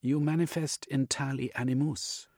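lightly voiced, insistent analyst; Jung the analyst. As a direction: press the diagnosis on the patient.

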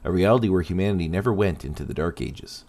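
steady documentary narration; story narration. Acted. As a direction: narrate like a history podcast. Narrates character history.

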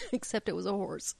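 coughing, choking on spit. Real, not acted. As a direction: talk through a choke on spit. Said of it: "Sorry, I'm choking my own spit".

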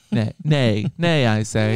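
neighing like a pony. Pretend. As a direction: say it like a neighing horse. Mock horse neigh talk.

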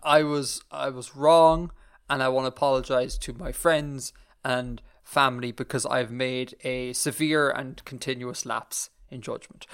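slow, hammed-up solemn contrition; mock internet apology. Podcast host parodying a scripted online apology, mock solemn and slow. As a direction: play a contrite influencer reading a scripted apology, slowly. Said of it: "this is an internet apology".

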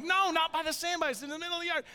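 high, loud, insistent parent; exasperated correcting. Retold or imitated. Dad correcting his daughter about the rabbit, exasperated. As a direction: correct the child with mounting frustration.

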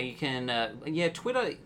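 imitating Brennan's Australian accent; mock Australian accent, laughing; Brennan's fake Australian. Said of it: "doing an impersonation of, of Brennan trying".

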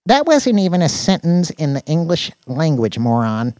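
scornful Danny. Acted. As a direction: correct the oaf with loud scorn. Coworkers trading insults in a quarrel.

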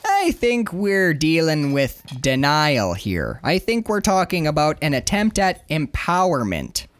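drawn-out put-on accent, earnest police spokesman; slow, accented official jargon; Sergeant Grady. Sergeant answering reporter, slow put-on accent. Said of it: "Sergeant Grady says".

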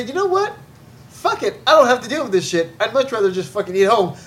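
imitating young people. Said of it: "maybe young people say".

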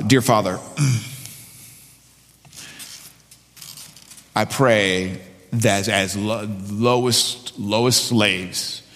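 earnest spoken public prayer. Real, not acted. Pastor asks Father to help the church, prayerful. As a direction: pray aloud for the congregation, pausing between phrases.

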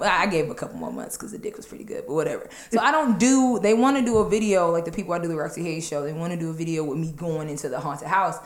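ordinary talk

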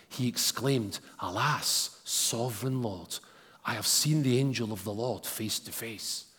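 measured Bible reading to the congregation; scripture reading. Acted. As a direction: read the passage with weight. Long scripture reading aloud.

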